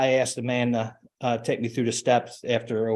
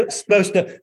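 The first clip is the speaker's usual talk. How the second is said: laughing sheepishly through it; a real embarrassed laugh; 8 semitones higher, 6 dB louder than usual. Real, not acted. Embarrassed admission mid-share.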